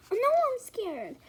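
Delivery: high, slow whispered whine; mock scared whine. Daughter refusing comfort, high whispered whine. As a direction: drag it out like a scared child.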